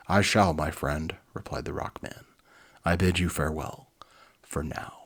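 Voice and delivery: lively read-aloud storybook voice; animated storyteller; story narration. A narrator's reading. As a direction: read it like a children's book. Reads children's book aloud.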